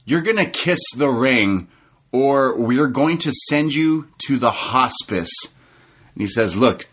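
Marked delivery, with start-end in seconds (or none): 0.1-5.3 higher, slowed heel threat; lightly voiced MJF threat; imitating MJF. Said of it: "M J F says".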